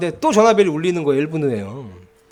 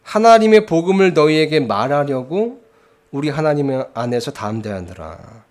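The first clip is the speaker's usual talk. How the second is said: raised, emphatic sermon delivery; preaching; 3 semitones higher, 4 dB louder than usual. Acted. Pastor preaching to his church, loud and emphatic. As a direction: preach it out to the pews with force. Preacher expounds scripture to congregation.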